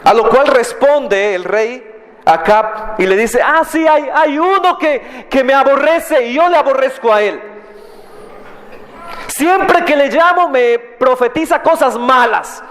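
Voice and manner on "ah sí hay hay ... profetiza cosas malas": grumbling king. Acted. King Ahab voiced in retelling.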